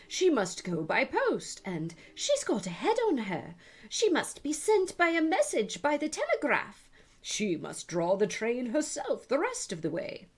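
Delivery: high, loud clamour of voices; chorus of passengers. Acted. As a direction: passengers shouting suggestions about Alice. Other voices went on.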